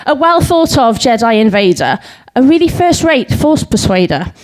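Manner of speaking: lilting comic verse reading; light, rhythmic stage recital; limerick recital. Acted. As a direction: bounce through the limerick, landing the rhymes.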